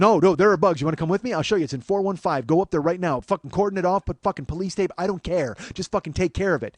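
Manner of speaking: loud urgent insistence; insistent. Retold or imitated. Demanding the manager deal with the room, loudly. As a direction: push him to act now.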